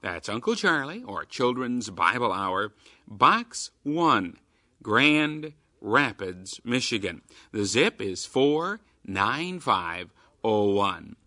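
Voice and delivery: upbeat radio promo read; chipper 1950s ad. Acted. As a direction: sell it like an old radio ad. Radio promo read for Keys for Kids.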